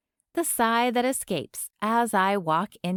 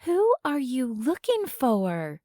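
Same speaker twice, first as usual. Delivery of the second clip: put-on Southern accent; 4 semitones higher than usual. A narrator's reading. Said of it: "says an older woman with a southern accent".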